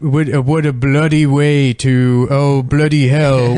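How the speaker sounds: mock British slang. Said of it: "uses British slang".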